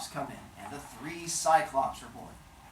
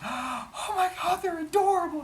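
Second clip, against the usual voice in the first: gushing adoration. Acted. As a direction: squeal over adorable newborns, hammed up. Mother Earth gushes over newborns.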